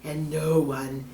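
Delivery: slow, whispered sinister hiss; menacing snake hiss. Acted. Snake squeezes the children, hissing threat.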